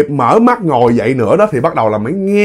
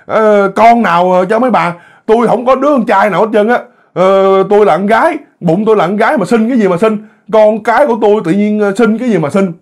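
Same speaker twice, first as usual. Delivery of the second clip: indignant refusal; 6 semitones higher than usual. Acted. Frightened mother refusing the spirits.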